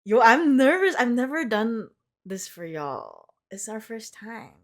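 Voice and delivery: giddy, high nervous energy; jittery before starting; nervous excitement. Real, not acted. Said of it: "I'm kinda nervous".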